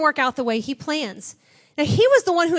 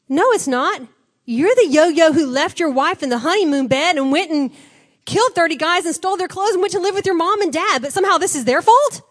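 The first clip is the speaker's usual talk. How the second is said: indignant challenge; 4 semitones higher, 5 dB louder than usual. Real, not acted. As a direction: demand an answer in disbelief. Preacher indignantly challenges Samson.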